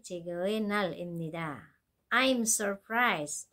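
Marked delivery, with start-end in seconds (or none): 2.1-3.5 drawn-out I'm surprised; very slow surprise. Shown as a demonstration. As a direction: stretch it out in mock surprise. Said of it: "어머".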